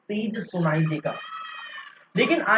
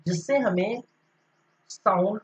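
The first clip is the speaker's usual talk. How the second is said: dictating notes. Shown as a demonstration. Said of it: "इसको हम क्या लिख सकते हैं".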